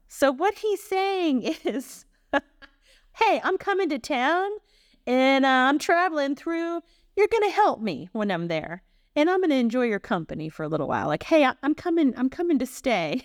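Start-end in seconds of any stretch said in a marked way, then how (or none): 3.2-13.2 put-on breezy Italian-American accent, starting high; hammed-up American Italian paraphrase; Italian-American uncle. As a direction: invite yourself over like an Italian uncle. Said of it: "my Uncle Joe saying something like this".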